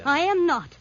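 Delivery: loud, defiant outburst; indignant refusal. Acted. Refuses to go to hideout.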